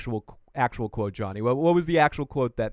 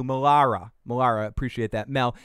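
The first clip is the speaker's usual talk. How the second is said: usual speaking voice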